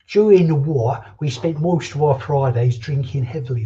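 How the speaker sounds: put-on a terrible, lightly done Uncle Albert accent; a hint of an old sailor spinning yarns; Uncle Albert impression. Mock old-timer telling chat about the war, barely put on. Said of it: "That was a terrible Uncle Albert accent".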